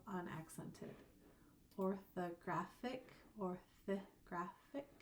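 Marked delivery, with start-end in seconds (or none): 1.8-4.9 orthographic said slowly, each syllable clear; deliberate slow pronunciation. Shown as a demonstration. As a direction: spell out orthographic slowly so the schwa is heard. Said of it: "I said it like that on purpose".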